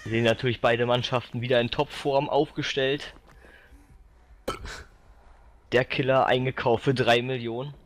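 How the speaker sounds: mock sports commentary. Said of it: "so kommentieren wie ein Fußballspiel".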